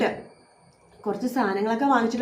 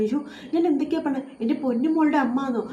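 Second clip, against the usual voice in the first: mock frantic panic, higher; 4 semitones higher than usual. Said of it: "ഒരു ഭ്രാന്ത് പിടിച്ച പോലെയൊക്കെ എന്തൊക്കെയോ പറഞ്ഞ്".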